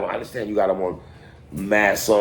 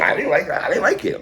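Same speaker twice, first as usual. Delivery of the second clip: laughing; 9 semitones higher than usual. Real, not acted. Laughing about disliking a mixtape.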